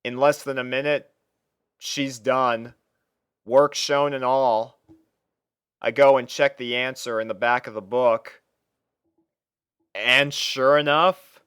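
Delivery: ordinary delivery, nothing marked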